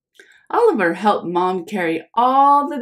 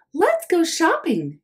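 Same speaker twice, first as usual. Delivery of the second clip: breathy secret whisper, a little higher; 9 semitones higher than usual. Acted. Mom whispering to Oliver about going shopping. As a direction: lean in and whisper the invitation.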